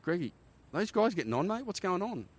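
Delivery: high-pitched urgent call down the aircraft; calling out urgently. Retold or imitated. Pilot calling his crewman on the ramp, high and urgent.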